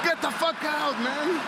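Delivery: annoyed brush-off. Retold or imitated. His retold annoyed reaction to twins.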